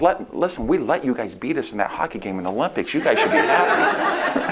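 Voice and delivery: teasing Canadians, laughing through a playful jab. Retold or imitated. Speaker needling Canadian audience about hockey, laughing and teasing. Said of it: "I says".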